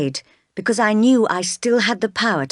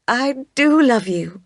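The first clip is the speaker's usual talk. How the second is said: earnest declaration; 7 semitones higher, slower than usual. Acted. Jane's tearful declaration.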